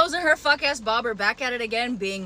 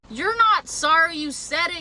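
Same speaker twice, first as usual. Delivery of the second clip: normal talking voice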